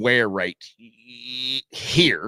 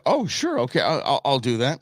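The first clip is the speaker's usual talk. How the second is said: mock surprise; 3 semitones higher than usual. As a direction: imitate a speaker caught unprepared. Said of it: "As if he didn't expect".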